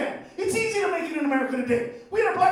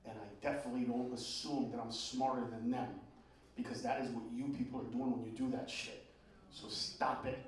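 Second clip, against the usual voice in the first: retold quiet answer; 12 semitones lower, 16 dB quieter than usual. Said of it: "This lady said to me".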